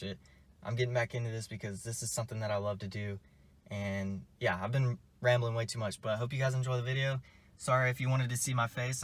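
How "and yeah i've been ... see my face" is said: talking with a sore, swollen mouth; just had wisdom teeth out. Real, not acted. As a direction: speak carefully around fresh wisdom tooth sockets. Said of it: "I just got my wisdom teeth removed yesterday".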